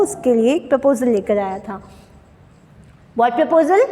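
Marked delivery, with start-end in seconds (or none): 3.2-3.9 sudden shocked question, pitched up and louder. Acted. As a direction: jolt up with shock on proposal. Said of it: "Natalia थोड़ा shocked होती है".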